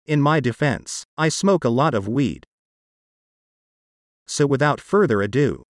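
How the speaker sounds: text-to-speech voice, even and mechanical; computer-generated voice. Real, not acted. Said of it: "my part of this podcast is done with a computer-generated voice".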